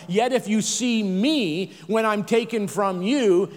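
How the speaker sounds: slow, with "me" leaned on; emphatic stress. Shown as a demonstration. Preacher showing where the emphasis goes in scripture, emphatic. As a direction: draw out the line, stressing "me". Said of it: "put the emphasis on the right syllable".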